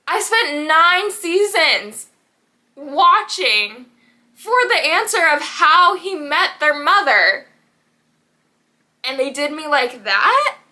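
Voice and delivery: venting about a show's ending, riled up and loud; riled-up rant. Real, not acted. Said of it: "I'm getting too angry".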